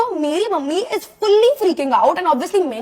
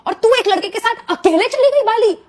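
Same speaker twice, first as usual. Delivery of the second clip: angry mother; 6 semitones higher, 5 dB louder than usual. Retold or imitated. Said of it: "तो मेरी mummy कहती है".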